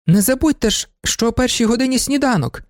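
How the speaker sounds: high call across the yard. A narrator's reading. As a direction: call after him as he drives off. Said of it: "гукнула до нього панна Феліція".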